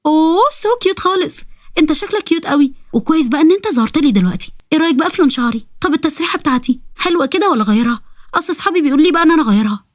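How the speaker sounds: lightly voiced girl cooing over the ifrit; gushing girl. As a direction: open high, then chatter unafraid.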